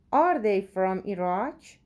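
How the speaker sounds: slow, clear question for learners; slow model reading. Shown as a demonstration. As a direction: ask it slowly for the class. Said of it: "teacher reads question slowly". (آهسته و شمرده بپرس)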